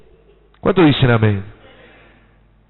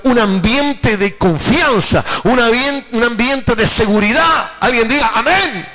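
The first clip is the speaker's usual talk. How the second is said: raised pitch, emphatic build; rousing preaching; 5 semitones higher than usual. Real, not acted. Preacher calls the church to amen on confidence, rousingly. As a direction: proclaim it to stir the congregation.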